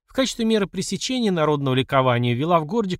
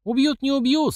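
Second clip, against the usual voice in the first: ordinary delivery, nothing marked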